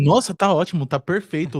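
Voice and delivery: lightly hammed-up rave, lifted at the start; mock glowing praise. Editor scripts praise for Dani to relay, mock raving. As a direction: gush a little, as if delighted.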